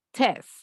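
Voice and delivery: "test" as "tes", with a firm "eh" vowel; strong E. Shown as a demonstration. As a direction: lean on the E in "test", dropping the final T. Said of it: "hago más fuerza en la E".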